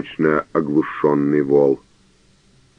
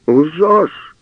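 high, furious roar; 11 semitones higher than usual. A narrator's reading. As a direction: bark «Лжёшь!» at him. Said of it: "зарычал каноник".

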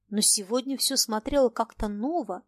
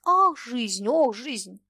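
mock moaning; much slower than usual. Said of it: "стонать".

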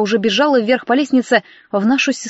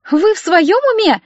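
much higher, indignant outburst; losing patience; 8 semitones higher than usual. A narrator's reading. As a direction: finally snap at the intruder. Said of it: "не выдержала Алина". (возмущённо срывается на крик)

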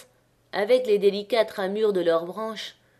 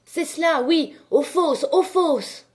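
foule qui acclame; 8 semitones higher, 3 dB louder than usual. A narrator's reading.

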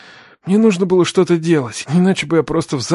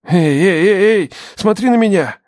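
raised, pressing voice; urgent, alarmed; 6 semitones higher, 4 dB louder than usual. Acted. Man catches the collapsing wounded girl, urgent and alarmed. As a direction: call her back to attention urgently.

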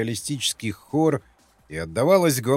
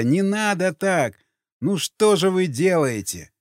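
a man crying out high to the crowd; pleading shout; 5 semitones higher than usual. Acted. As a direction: shout to break up the brawl. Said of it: "Васнецов закричал".

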